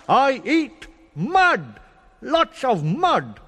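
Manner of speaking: slow, loud boasting worm; proud worm. Acted. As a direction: drag out the boast. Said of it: "worm boasts".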